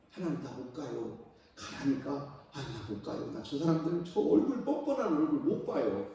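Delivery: soft, pleading refusal; reluctant prophet. Acted. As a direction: whine quietly that you can't go. Prophet refusing, voiced softly. (작게 애원하며 거절하는 선지자)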